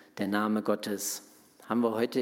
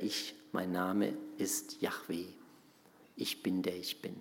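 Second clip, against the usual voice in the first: hushed voice of God; 3 semitones lower, 7 dB quieter than usual. Acted. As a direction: let God's name fall to a reverent whisper. God tells Moses his name.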